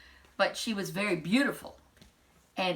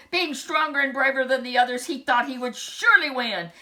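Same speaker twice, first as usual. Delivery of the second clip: excited; 5 semitones higher, 7 dB louder than usual. A narrator's reading. Narrating the prince's boast.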